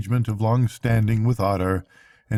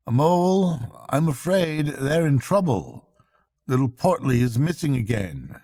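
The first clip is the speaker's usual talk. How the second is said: lightly raised voice for the worried Rat; a hint of concern, voice a little higher; Rat, kindly but worried; 3 semitones higher than usual. Rat telling Mole of the otters' trouble, lightly worried.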